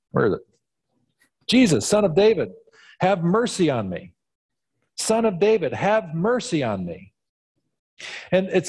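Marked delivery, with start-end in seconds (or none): 1.5-7.1 high calling out for mercy; yelled plea. Acted. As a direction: cry out to Jesus, pleading. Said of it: "to yell out".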